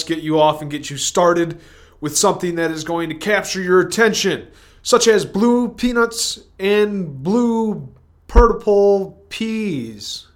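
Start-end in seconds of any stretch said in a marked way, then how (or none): 4.8-10.3 strange put-on voice. Odd put-on voice for nonsense.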